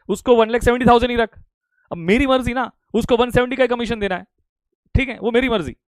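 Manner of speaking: real telling-off, pitched a little up; scolding a student. Real, not acted. Teacher answering Prateek's objection over the commission, scolding. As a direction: insist firmly, like a teacher fed up with objections.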